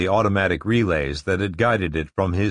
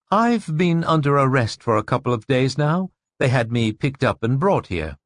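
intense woman voice; 5 semitones higher than usual. Acted. Narrator voices Rachel.

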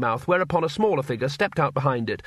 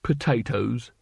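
growled. A narrator's reading. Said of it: "it growled".

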